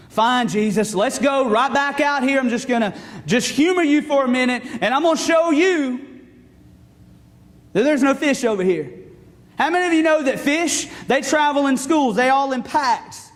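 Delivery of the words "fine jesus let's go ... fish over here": humoring with mild sarcasm; sarcastic. Acted. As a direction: play along grudgingly, sarcastically. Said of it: "there was sarcasm in his voice".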